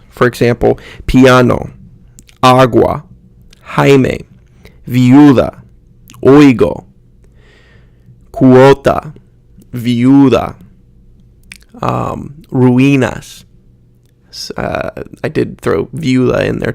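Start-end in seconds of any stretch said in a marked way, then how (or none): 1.1-10.6 piano, agua, viuda with vowels glided together; one-syllable glides. Shown as a demonstration. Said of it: "it's pronounced as one syllable". 12.5-13.5 ruinas with u gliding into i; one-syllable glide. Shown as a demonstration. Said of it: "it's pronounced as one syllable".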